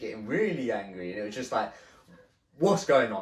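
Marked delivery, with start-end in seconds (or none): 2.6-3.2 alarmed. Retold or imitated. Scared confrontation.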